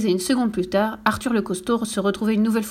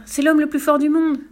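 petite fille inquiète; 6 semitones higher, 5 dB louder than usual. Acted. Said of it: "ajouta Annika".

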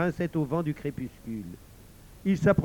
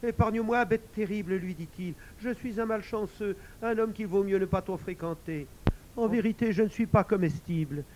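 frightened pleading; 5 semitones higher than usual. Acted. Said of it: "Il fut tant effrayé".

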